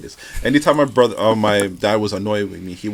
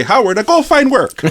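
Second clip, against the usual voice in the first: higher, Jamaican patois with a hint of Italian flair; Jamaican dad accent; 11 semitones higher, 4 dB louder than usual. Annoyed Jamaican dad shooing his son away, in accent. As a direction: imitate a hardcore Jamaican dad. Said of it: "he still had his accent".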